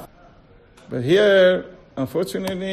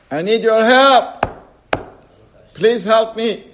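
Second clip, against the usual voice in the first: pleading; 4 semitones higher, 4 dB louder than usual. Acted. Man pleading with God.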